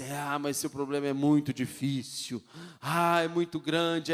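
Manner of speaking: hint of a neighbor sighing over your trouble; gloomy neighbor. Neighbor agrees the problem is huge, mock pity. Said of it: "Conta pra um, pro vizinho".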